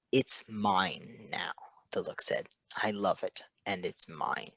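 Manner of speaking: possessive. Acted. The possessive look voiced.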